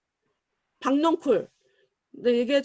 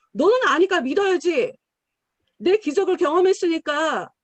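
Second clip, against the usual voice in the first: louder stress on 너는; 4 semitones higher, 5 dB louder than usual. Acted. Preacher pressing the point.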